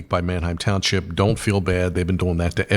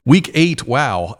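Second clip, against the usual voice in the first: excited; 6 semitones higher, 4 dB louder, slower than usual. Real, not acted. Host hyping the week.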